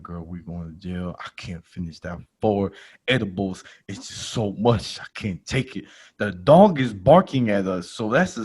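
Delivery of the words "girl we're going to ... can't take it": hushed, much softer scared murmur; mock-scared low voice, much softer; frightened. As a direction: mutter fearfully under the breath.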